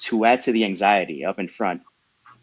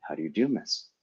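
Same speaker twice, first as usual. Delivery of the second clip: lower, softer and serious; calm, somewhat friendly; 4 semitones lower, 7 dB quieter than usual. A narrator's reading. Daniel greets the little girl, calm and somewhat friendly. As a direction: keep it composed yet courteous. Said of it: "stayed calm and serious, though somewhat friendly".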